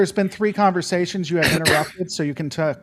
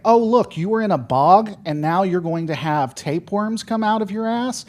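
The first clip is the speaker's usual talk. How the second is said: mocking; 5 semitones higher, 3 dB louder than usual. Mocking the show's message.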